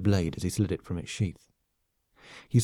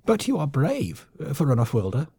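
hissed; 5 semitones higher than usual. Acted. Lemming colonel hisses grudging praise at his foe. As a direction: hiss a grudging compliment. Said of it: "Vok hissed".

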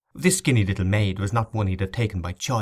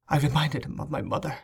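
put-on soft, higher girl's voice; lightly voiced, subdued young girl; 5 semitones higher, 4 dB quieter, faster than usual. A narrator's reading. Girl explains herself to her rescuer, small soft voice.

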